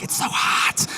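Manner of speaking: voiceless, exaggerated moan; mock weary complaint. Locals never happy with the weather, breath-only mock moan. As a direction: mimic someone griping about the heat.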